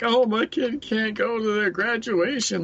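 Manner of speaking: high-pitched mocking whine of an upset parent; imitating someone freaking out over nothing. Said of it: "freaking out".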